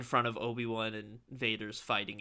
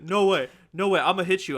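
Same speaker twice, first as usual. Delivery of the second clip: higher, louder imitation of an outraged classmate; mock angry kid; 6 semitones higher, 10 dB louder, faster than usual. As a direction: act the kid threatening to fight. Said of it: "He's like".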